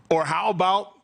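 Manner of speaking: grand introduction, rising in pitch; self-promoting announcer build-up. Acted. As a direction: proudly announce yourself like a star entrant. Builds up to own name.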